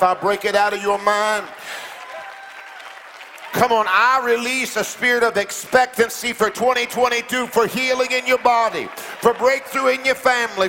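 impassioned preacher rallying the room; fervent declaration. Real, not acted. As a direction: build the blessings one on another. Preacher declares over congregation.

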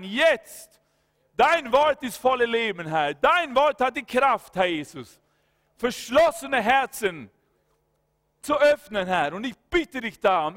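loud, driving prayer of deliverance; fervent prayer. Acted. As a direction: pray it out with full authority. Prays against bitterness aloud.

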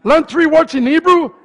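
high, eager whooping imitation; mock excitement. Preacher imitating the excited congregation, mock excitement. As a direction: gush like an over-keen congregant. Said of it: "You all were much more excited".

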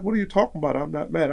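high-pitched puzzled denial; baffled retold protest. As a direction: push back in a high, baffled voice. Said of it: "I'm like".

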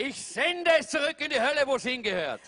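retold shout. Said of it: "von ganzer Kraft geschrien".

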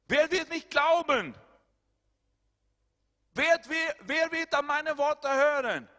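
high, loud pleading preaching; preaching at full force. Acted. Preacher voicing the believer's fear, high and loud. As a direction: cry out the doubt to the church.

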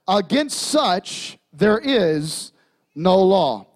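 slow, measured Bible reading with long pauses; scripture reading. Acted. Pastor reads Galatians to the congregation, slow and measured. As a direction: lay each fruit out slowly, one word at a time.

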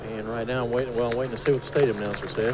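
loud. Real, not acted. Radio host over loud stadium.

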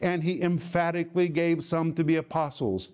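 insistent stress on "emphatically"; emphatic. Shown as a demonstration. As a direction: drive home "emphatically" as a firm declaration. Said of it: "It is emphatic".

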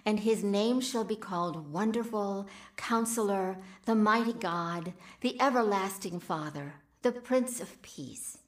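measured scripture recital; scripture reading. Acted. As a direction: read the verse with reverence. Reads Bible text aloud.

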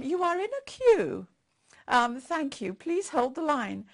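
a touch of a phone robot; recorded phone voice. Retold or imitated. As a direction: chirp it like an automated recording. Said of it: "this little voice that says".

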